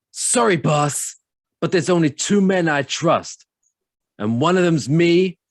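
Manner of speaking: self-mocking bad Cage voice; bad Nicolas Cage. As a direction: do a terrible Cage impression. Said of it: "That's a terrible Nicolas Cage impression".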